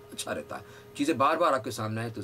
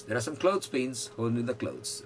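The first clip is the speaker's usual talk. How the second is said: very slow, every word spaced out; slow model sentence; much slower than usual. Shown as a demonstration. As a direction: dictate it slowly for the class. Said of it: "model sentence".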